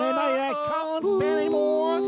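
infomercial. Pretend. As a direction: sell it like a TV pitchman. English ad for Utip support.

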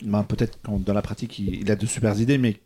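voix étranglée, en toussant; en s'étouffant. Real, not acted. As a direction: parle en s'étouffant avec une chips. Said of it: "Pardon, je m'étouffe avec un". (s'étouffer avec une chips)

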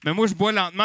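usual speaking voice

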